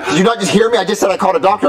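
exasperated repeat. Acted. Son repeating himself to cook who didn't hear, exasperated. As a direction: repeat it as if they weren't listening.

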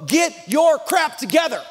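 hammed-up reprimand; mock stern demand. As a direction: scold like an impatient judge. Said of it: "Jesus didn't look at you and go".

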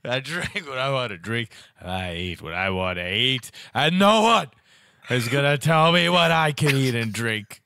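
imitating a wrestler promo; wrestling promo. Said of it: "I don't know what's happening here".

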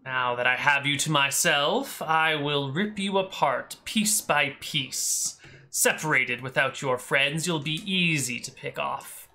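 slow, menacing voice from the darkness; a lurking shadow taunting its prey slowly; dark whisper behind you. Acted. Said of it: "a cackling voice from the darkness".

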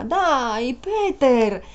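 high, coaxing and gleeful; excited. Acted. Woman coaxing Peter into a joyride, excited. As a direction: stretch out trionfanti in triumph. Urging him to have fun.

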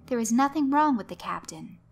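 a touch of a stern mother scolding; firm, lightly voiced scolding; mother cutting off her daughter's fuss, mildly stern. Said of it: "tones tended to lean more towards direct and stern".

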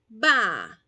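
"Ba" cortado y fuerte; sílaba inicial aislada. Shown as a demonstration. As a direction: solo la primera sílaba, marcada. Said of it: "Aislar la sílaba inicial". (sílaba inicial dicha fuerte)

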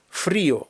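фріо with stressed і, separate о; split diphthong. Shown as a demonstration. Teacher models word for cold, vowels split. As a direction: lean on і in фріо, two syllables. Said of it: "дифтонг треба розбити".

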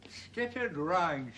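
slow, drawn-out imitation of the radio voice; mock announcer voice. Resident mocking the radio weather reader, slow mock announcer. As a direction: lightly mimic the wireless forecaster. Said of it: "Oh, that voice".

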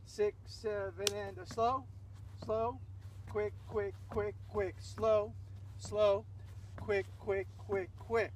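rhythmic instructor's call, leaning on each slow; long slows, short even quicks in steady time; dance count-in. Shown as a demonstration. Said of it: "The timing".

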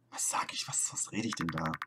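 hushed self-reproach; whisper. Acted. Whispering to herself, ashamed. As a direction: whisper it, shocked at yourself.

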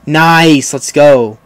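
loud, pleased exclamation; excited cheer. Real, not acted. Gamer cheering a good play, excited cheer.

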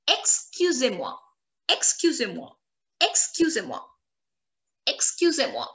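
"Excusez-moi" as ex-kyu-zay-mwa; French pronunciation demo. Shown as a demonstration. Teacher showing formal excuse me, "Excusez-moi" with an ay sound. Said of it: "The sound of E Z is like accent aigu".

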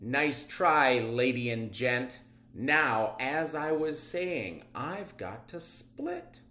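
lightly voiced villain, slowing on got to split; smug villain. Miss Matter mocking the police as she escapes again, lightly voiced. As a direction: brush them off with mock politeness.

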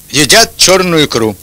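usual speaking voice

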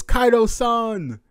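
high slow drawn-out call; lightly voiced fighter; mock fighter voice. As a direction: call out his name in awe.

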